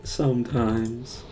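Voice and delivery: slow mock-defeated echo; imitating your own defeated tone. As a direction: drag the word out as if beaten. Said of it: "how defeated I sounded".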